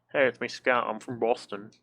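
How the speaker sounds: badly faked Boston accent; Scout. Streamer voices a game character while playing, shaky grasp of a Boston accent. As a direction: have a half-hearted go at a Boston accent. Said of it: "how to do a Boston accent".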